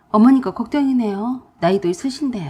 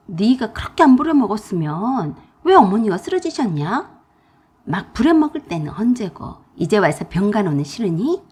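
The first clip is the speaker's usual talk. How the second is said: louder scolding tirade; pouring out anger; 4 dB louder than usual. Acted. Pregnant narrator angrily scolds sister-in-law. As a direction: let it all out at her. Angry phone quarrel.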